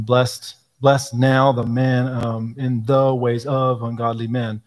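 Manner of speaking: "blessed" drawn out slowly with misplaced weight; sing-song old meter, stresses landing awkwardly; wrong syllable stress. Shown as a demonstration. Speaker demonstrating a badly stressed psalm line, slow and lilting. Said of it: "putting the emphasis on the wrong syllable".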